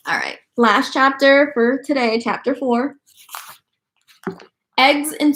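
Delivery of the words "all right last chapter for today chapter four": hushed reader aside; whispered aside. Real, not acted. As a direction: whisper the chapter intro. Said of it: "aside to listener, whispered".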